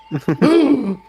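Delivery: high, loud sharp gasp; shocked gasp. Acted. Osnek gasps on recognizing his old teacher. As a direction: gasp as if seeing a ghost. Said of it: "And then Osnek goes".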